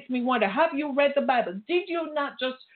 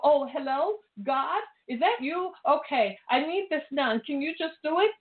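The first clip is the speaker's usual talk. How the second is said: higher, sing-song mock prayer to a wind-up God; 4 semitones higher than usual. Preacher mocking people who treat God like a toy, higher sing-song. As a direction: parody a needy believer asking favors.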